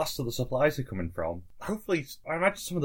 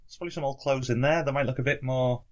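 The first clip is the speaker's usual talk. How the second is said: lightly raised helpful townsman; a hint of a chatty villager; Jim's voice. GM voicing Jim, higher.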